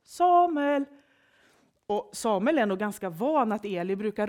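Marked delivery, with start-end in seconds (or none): 0.0-0.9 high, loud drawn-out call. A narrator's reading. The voice calls Samuel in bed, calling out. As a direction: call the name from a distance. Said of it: "hör han hur någon ropar på honom".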